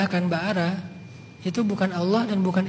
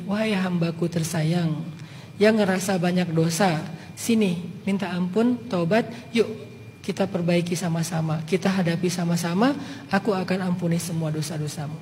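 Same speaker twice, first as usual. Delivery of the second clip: a gentle, reassuring invitation to come back; tender loving call; 4 semitones lower, 4 dB quieter than usual. Retold or imitated. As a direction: read it like a love letter to a sinner. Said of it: "ada surat cinta dari Allah".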